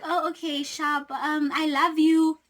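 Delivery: a hint of a shy girl saying it; mock sweet confession.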